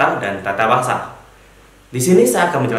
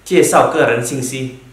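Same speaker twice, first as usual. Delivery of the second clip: each syllable laid out slowly; slow careful Mandarin; 3 dB louder, slower than usual. Shown as a demonstration. Teacher introduces topic name to class, slow and clear. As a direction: read the Chinese term slowly for learners. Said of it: "Kedua yaitu".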